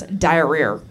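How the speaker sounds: diarrhea with an R on the end, low and drawn out; Rhode Island accent. Retold or imitated. Wife imitating how Jared talks, Rhode Island accent. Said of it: "an R at the end of everything".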